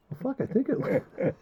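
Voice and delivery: unsure. Retold or imitated. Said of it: "And I'm like".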